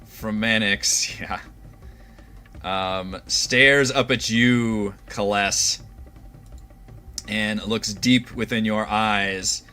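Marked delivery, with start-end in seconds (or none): 3.3-9.6 slow, drawn-out narration; dramatic scene-setting. A narrator's reading. Game master describing the revenant's stare, slow and dramatic. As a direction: draw out each phrase for suspense.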